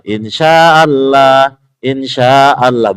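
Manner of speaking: put-on slow, drawn-out insya Allah with a European accent; imitating a European singer.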